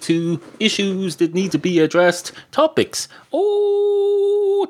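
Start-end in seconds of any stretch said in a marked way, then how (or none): 2.5-4.7 long high drawn-out oh; stretched comic cry. Acted. Host breaking off mid-list, long high oh.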